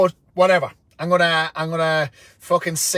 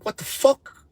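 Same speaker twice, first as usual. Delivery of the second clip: mock shocked outburst; 8 semitones higher than usual. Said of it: "And I'm like".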